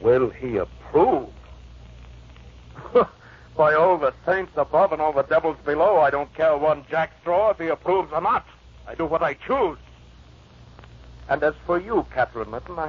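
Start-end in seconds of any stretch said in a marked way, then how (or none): 0.0-3.1 slow scornful scoffing; mocking echo, then a laugh. Heathcliff mocks Linton's approval. 3.6-9.8 raised, defiant outburst; high-pitched scornful defiance. Acted. Heathcliff defies Linton, raised.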